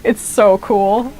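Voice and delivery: slow, laughing it's so cool; laughing delight. Real, not acted. Streamer admiring the upgraded hidden blade, laughing. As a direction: laugh through the words, slowly.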